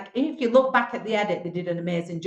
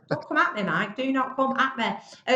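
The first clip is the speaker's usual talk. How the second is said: higher-pitched retort, slowing on the repeat; mock warning; 4 semitones higher than usual. Contestant recalls warning interviewer Mike off, mock-defiant. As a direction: playfully warn him off, spacing out the repeat.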